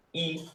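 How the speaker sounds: "I" as a simple vowel; plain vowel I. Shown as a demonstration. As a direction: say "I" as a held, pure vowel. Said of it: "la I normal". ("I" como vocal normal)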